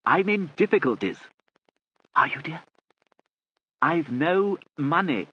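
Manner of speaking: loud and high, drawn out; loud, slow shouting. A narrator's reading. Lord Charles confessing to his deaf aunt, loud and slow. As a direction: spell it out loudly.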